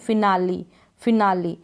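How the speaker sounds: फिनाली ending in a clear long ee; फिनाली as three syllables; final E pronounced. Shown as a demonstration. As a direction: sound the last vowel of फिनाली, fi-naa-lee. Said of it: "इसको हम ई pronounce कर रहे".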